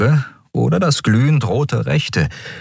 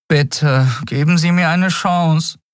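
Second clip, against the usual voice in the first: put-on much higher, begging young voice; a desperate kid begging; pleading boy; 10 semitones higher, slower than usual. A narrator's reading. The boy begs the captain for a chance, high and pleading. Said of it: "flehte der Junge".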